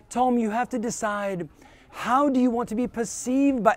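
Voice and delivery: put-on a faint stab at a South African accent, mentor quoting; hint of a South African accent, barely attempted; weak South African accent. Coach recalls mentor's advice, half-hearted South African accent. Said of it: "not even anywhere near a South African accent".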